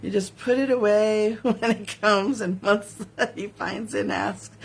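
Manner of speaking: reading through giggles; laughing while reading. Real, not acted. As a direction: try to read but keep cracking up. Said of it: "I can't even read it without laughing".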